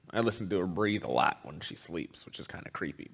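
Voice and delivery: soft unvoiced confession; hushed, sheepish aside; whispered aside. Real, not acted. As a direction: whisper it like a guilty secret. Confiding aside about listening to wife.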